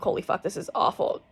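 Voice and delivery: breathless whispered curse; retold whisper through pain. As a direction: hiss it out under the pain. Retold reaction during painful procedure.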